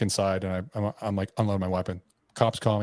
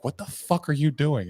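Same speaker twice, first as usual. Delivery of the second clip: higher-pitched retold demand; acted-out alarm, not yet screamed; 5 semitones higher than usual. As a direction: imitate someone demanding an explanation. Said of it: "She's, like, screaming at me".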